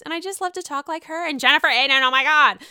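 lightly voiced Jersey housewife; a hint of Margaret's chatter; Margaret Josephs voice. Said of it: "I get to do my Marge".

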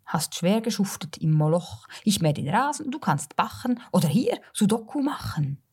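measured, rhythmic reading of comic verse; wry storyteller's poetry reading, line by line; poem recitation. Acted. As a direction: recite rhyming verse with deliberate pauses. Recites her humorous summer poem.

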